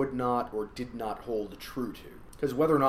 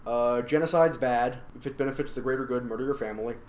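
tipsy voice; 3 dB louder than usual. Real, not acted. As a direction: talk like you've had a few drinks. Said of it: "in my tipsy voice".

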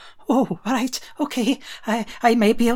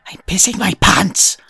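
conspiratorial whisper; a whispered secret to a companion; whispered confession; 5 dB louder than usual. Acted. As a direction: let them in on it, hushed. Confides a secret.

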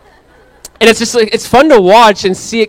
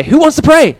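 1 cheery dad asking; 10 semitones higher, 6 dB louder than usual. Retold or imitated. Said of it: "I say, I say".

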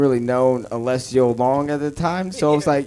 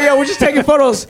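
high, loud hammed-up protest; mock loud excuse; 13 semitones higher, 7 dB louder than usual. Film crew fobbing off annoyed neighbours, loud high mock protest. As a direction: call it out like an innocent excuse.

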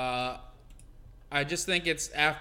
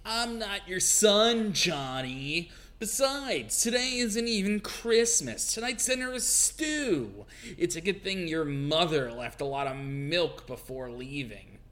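prim maid voice; slower than usual. Acted. Voicing Mary answering the troll.

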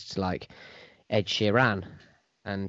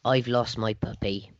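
West Country accent; slower than usual. Shown as a demonstration. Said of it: "in a West Country accent".

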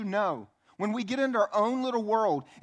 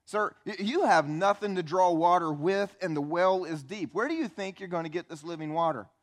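irritated. Acted. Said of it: "she is still incredibly irritated".

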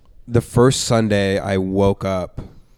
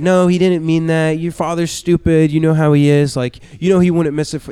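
mom voiced higher, a bit louder; imitating mom; 8 semitones higher, 4 dB louder than usual. Son imitating his mom excusing his father, higher voice. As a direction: mimic mom making excuses for dad, pitched up. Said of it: "And she was like".

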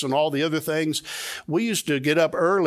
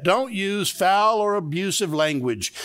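slow emphatic repeat; 3 semitones higher, slower than usual. Shown as a demonstration. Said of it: "Let me repeat that".

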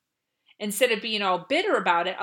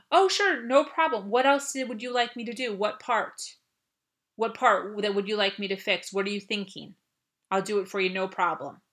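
put-on accommodating child, never defensive; calm, not harsh. Shown as a demonstration. Child answering a parent about the garage, calm and willing. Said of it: "not in a harsh tone, in a very monotone, calm tone".

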